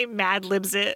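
laughing, cracking up while talking. Joking about how movie titles get made, laughing while talking. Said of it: "I'm cracking myself up this morning".

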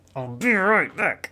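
through gritted teeth. Demonstrating advice about partners with fear of abandonment, through gritted teeth. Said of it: "do it through gritted teeth".

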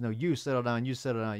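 plain

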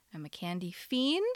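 ordinary talk, nothing marked

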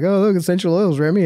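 light, playful teasing. Recounting spraying essential oils around the dog, retelling a joking remark. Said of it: "I kind of jokingly was like".

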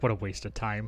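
quiet muttering under the breath. Acting out a line in a joke, mumbled under the breath. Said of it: "I'm gonna humble under my breath".

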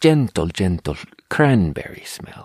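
put-on Finnish accent on English. Reading grocery product labels aloud, in a put-on Finnish accent. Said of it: "That's a Finnish accent for anyone wondering".

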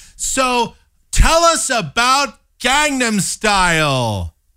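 very high, slow, over-enunciated condescending talk. Imitating an interviewer talking down to a guest: mock-condescending, slow, over-enunciated. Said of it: "that very sort of condescending, slow, loud style of speech".

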